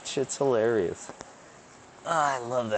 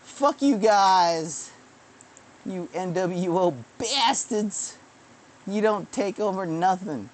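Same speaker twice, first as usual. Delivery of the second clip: defiant retort; 6 semitones higher than usual. Retold or imitated. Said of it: "And I go".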